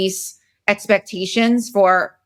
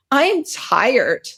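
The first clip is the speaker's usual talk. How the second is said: higher-pitched mock child protest; inner child complaint; 4 semitones higher than usual. Inner child to adult self, mildly whiny tiredness. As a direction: lightly voice a worn-out little kid. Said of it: "my inner child today was just kinda like".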